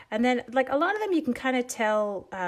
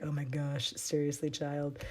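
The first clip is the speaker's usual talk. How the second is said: exasperated; 5 semitones lower, 8 dB quieter than usual. Retold or imitated. Exasperated reply to son.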